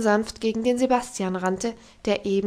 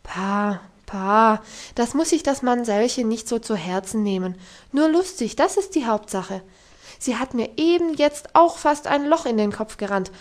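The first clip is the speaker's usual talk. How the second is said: comforting; 4 dB louder than usual. Acted. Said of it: "sagte tröstend".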